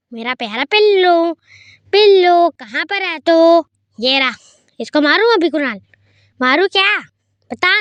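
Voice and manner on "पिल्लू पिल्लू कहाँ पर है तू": loud call across the house, then slower. Real, not acted. Hunting the pet in Granny's house, calling loudly for it. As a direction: call the name out to find him.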